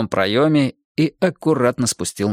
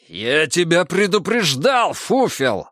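roar; 6 semitones higher, slower than usual. Acted. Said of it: "взревел санитар Егор".

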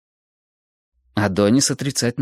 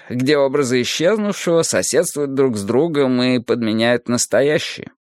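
lightly voiced philosophical teacher, raised pitch; Adonis expounding; 5 semitones higher than usual. Adonis expounds the emptiness of the world, lifted lecturing voice. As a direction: expound it as a patient sage, slightly lifted.

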